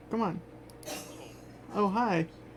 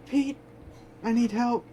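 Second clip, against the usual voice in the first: high, urgent plea for help; frantic cry, begging Pete; desperate call for help; 6 semitones higher than usual. Acted. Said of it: "what sounds like Cora's voice".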